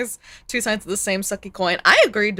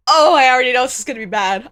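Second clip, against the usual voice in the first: mock dread; 3 semitones higher, 6 dB louder, faster than usual. Real, not acted. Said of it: "I'm so scared".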